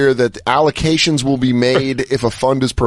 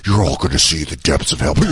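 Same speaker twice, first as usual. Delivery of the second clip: low spooky voice; 11 semitones lower than usual. Retold or imitated. Spooky actor line quoted.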